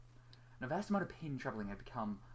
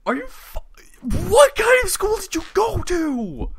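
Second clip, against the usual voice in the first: much higher, louder, slow outraged question; incredulous shout; 21 dB louder, slower than usual. Real, not acted. Host outraged about cohost's school, high incredulous shout. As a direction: shout in comic disbelief.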